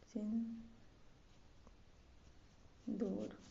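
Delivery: सिंदूर split with a long gap, soft; spelled by syllables. Shown as a demonstration. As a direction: dictate सिंदूर very slowly in two pieces. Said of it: "ऐसे लिखा जाता है".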